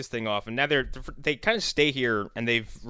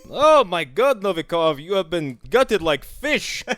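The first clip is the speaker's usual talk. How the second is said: hammed-up gloating soldier, higher and louder; mock soldier voice; 6 semitones higher, 7 dB louder, slower than usual. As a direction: gloat over the corpse in a comic voice.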